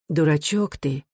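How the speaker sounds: gently chiding mother; understated, affectionate sorrow; sad and tender. A narrator's reading. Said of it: "печально и ласково сказала мать".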